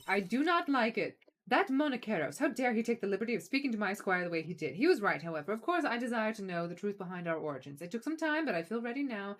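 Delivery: lightly voiced haughty letter-writer; a hint of a proud noble; indignant noble unicorn. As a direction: read with mildly affronted, formal dignity.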